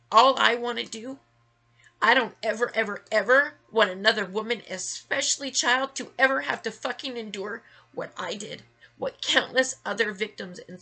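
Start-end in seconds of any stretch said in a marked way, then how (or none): 0.1-7.6 rising fury, hitting each word louder; angry outburst. Real, not acted. Ranting to viewers who ignore victims, angry and loud. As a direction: spit out the list in real anger. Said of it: "and I'm getting angry".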